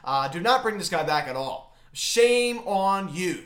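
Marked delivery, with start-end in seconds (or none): 1.9-3.4 slow, drawn-out disapproving scold. Real, not acted. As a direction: shame him, slowly and loud. Scolding the relief pitcher.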